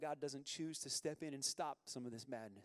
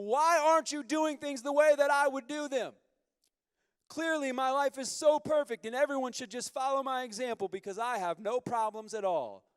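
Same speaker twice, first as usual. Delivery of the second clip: louder, higher, sarcastic whine at God; mock demanding prayer; 7 semitones higher, 10 dB louder than usual. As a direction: play the self-righteous complainer.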